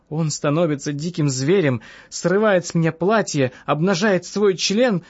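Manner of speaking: lightly voiced woman, pitch climbing as she tells it; mildly agitated patient's complaint.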